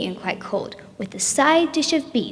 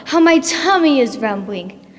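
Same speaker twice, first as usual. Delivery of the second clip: grumpy giant; 2 semitones higher, 5 dB louder than usual. Acted. Hungry giant complaining about his rumbling tummy. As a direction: whine like a hungry grouchy giant. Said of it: "he'd slobber and slouch and say".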